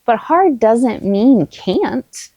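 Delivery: put-on slow, firm encouragement to a child; steady them with calm certainty; reassuring. Shown as a demonstration. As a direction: parent encouraging a struggling child. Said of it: "And I'll say".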